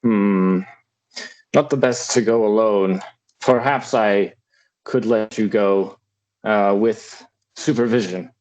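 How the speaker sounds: put-on measured, halting British-accented lord; British-accented father. Father answers Cassie's request about the village, attempted British accent.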